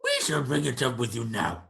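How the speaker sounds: creature voice, insisting on it now; threatening creature servant. Acted. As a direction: overrule the guest as the creature.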